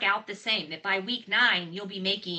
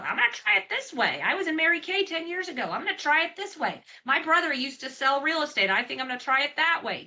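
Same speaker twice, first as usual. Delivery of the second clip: high, bright mock voice of people who keep changing plans; imitating wavering newcomers; 7 semitones higher than usual. Saleswoman to her audience, mocking newcomers in a high voice. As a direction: mimic a flighty recruit hopping between ideas, pitched up. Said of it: "every week there's people that".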